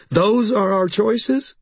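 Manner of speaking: high, slow, disbelieving question; appalled. A narrator's reading. Sarissa to Harry about their choices, appalled. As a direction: draw it out high, in dismay.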